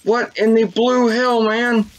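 high, drawn-out bewilderment; slow, high-pitched disbelief; baffled disbelief. Real, not acted. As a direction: stretch it out high, totally baffled. Baffled by game's hallucination.

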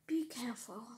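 hushed unvoiced warning; whispering. Real, not acted. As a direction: whisper it as a secret.

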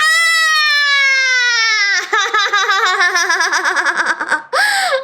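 high shouting laugh. Real, not acted. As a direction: laugh and yell together. Laughing shout after save. (소리치며 웃음)

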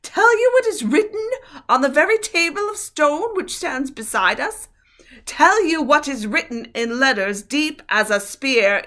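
high, loud furious witch; shrill witch. A narrator's reading. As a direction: rage like a wicked queen. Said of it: "her voice growing suddenly shriller".

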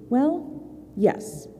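soft rising well, then a whispered yes; playful storyteller's hush; hushed teasing yes. A narrator's reading.

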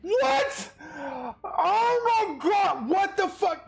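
shouting. Real, not acted. Outraged at game result.

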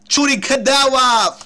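Shuriken de agua shouted high, loud and drawn out; excited shout. Real, not acted. Gamer shouts the new move his Pokémon learned, thrilled and loud. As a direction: belt out the move name in triumph.

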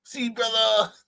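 mocking the dad. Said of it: "He's like".

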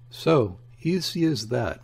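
marveling. Acted. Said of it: "marveled the voice of Chief Inspector Heat".

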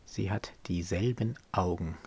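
soft, wistful close of a poem; subdued poem recitation. Acted. Lovesick man sees his beloved's eyes in the child, soft recitation. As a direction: let the verse sink softly, with pauses.

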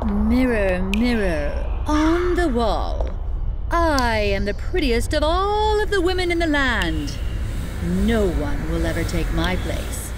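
lightly voiced haughty evil queen. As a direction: preen at the mirror, vain and cold. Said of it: "said the evil queen".

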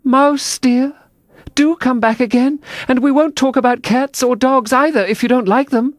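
high, coaxing call; gentle calling. A narrator's reading. Alice coaxes the mouse to come back, high gentle calling. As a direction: call after someone sweetly, well up in pitch. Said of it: "she called softly after it".

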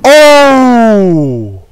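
loud, high startled yelp; sudden high-pitched oh; startled shout. Real, not acted. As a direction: jump at the sight. Startled by Bugs Bunny jumpscare.

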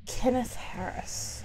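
slow unvoiced whisper of the ghost's name; hushed call to a hidden ghost. Real, not acted. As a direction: whisper the name slowly into the dark.

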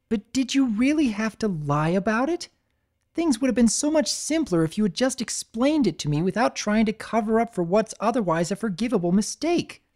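lightly voiced disappointed mentor; Twilight, gently disappointed. Twilight gently chiding Spike for lying.

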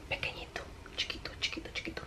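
soft, breathy diminishing whisper. Real, not acted. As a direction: shrink the voice to nothing. Tiny live video, whispered.

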